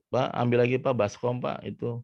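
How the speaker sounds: a hint of a wife calling out; mother asking father. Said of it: "kata ibunya bilang".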